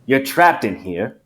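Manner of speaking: put-on unpanicked country accent, measured phrases; Foghorn. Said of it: "I felt like I was being Foghorn".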